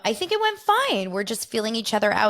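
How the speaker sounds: high, airy mock of her reply; mock breezy co-host. Host mimicking the co-host insisting the show went fine, high airy mock. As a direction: play her off as blithely unbothered. Mocking the co-host's breezy answer.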